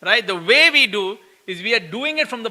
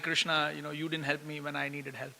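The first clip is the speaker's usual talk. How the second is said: sad complaint; 7 semitones lower, 15 dB quieter than usual. Retold or imitated. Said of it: "I feel very sad and I'm like".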